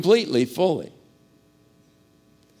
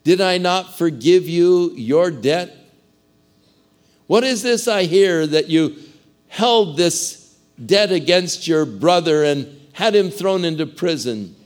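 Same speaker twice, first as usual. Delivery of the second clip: louder and higher, the king thundering at his servant; angry rebuke; 4 semitones higher, 6 dB louder than usual. Acted. The lord confronts the wicked servant, furious rebuke. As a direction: rage at the ungrateful servant. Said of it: "the Lord called him in and he said".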